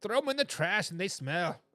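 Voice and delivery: put-on unconvincing Boston accent, dropped r in "fork"; badly faked Boston accent; attempted Boston accent. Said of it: "I tried to do a Boston accent".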